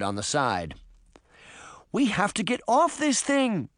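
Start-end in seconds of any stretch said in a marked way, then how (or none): 1.9-3.7 high-pitched alarmed plea; urgent cry. A narrator's reading. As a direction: cry out to get everyone moving, pitched up. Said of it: "Sabrina cried".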